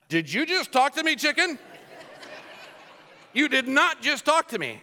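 high-pitched incredulous questioning; mock disbelief. Acting disbelief at a talking chicken.

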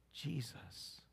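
breathy whisper on "Jesus"; whispered name. Real, not acted. Preacher whispers the name to the congregation. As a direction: drop to a hush for the one word. The one word he says.

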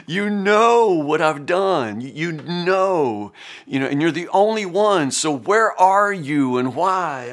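slow, drawn-out appeal to God; Job's plea. Acted. Preacher voices Job demanding answers from God, pleading. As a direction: press the question on God, stretching the words.

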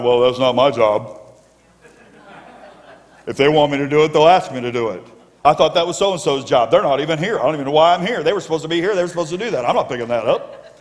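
mock whiny complaining churchgoer; grumbling lazy Christian. Preacher mocks a grudging volunteer, whiny. Mocking a reluctant church worker.

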